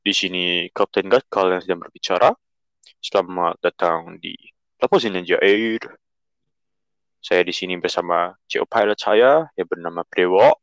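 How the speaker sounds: mock airline captain intercom voice; pilot announcement. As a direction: play the captain greeting passengers.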